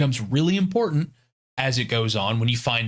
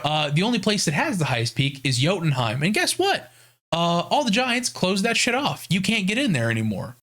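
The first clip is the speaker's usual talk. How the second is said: higher, cheeky Mimir voice; mock Mimir; 5 semitones higher than usual. Trapped Mimir mocking the climbers, higher cheeky voice. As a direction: play him as a smug trapped head. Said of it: "is like".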